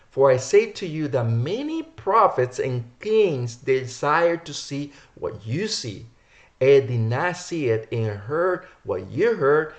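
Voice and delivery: drawn-out, weighted verse reading; emphatic scripture reading. Acted. Preacher quotes the Mashiach's words to listeners, emphatic scripture reading. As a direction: declaim it, stretching the ends of phrases.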